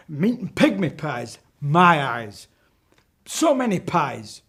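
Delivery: high, loud witch voice reeling off pies; witch listing pies. Acted. Witch boasting her pies to the children, loud and high. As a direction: rattle off the pies like a greedy hag. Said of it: "She went".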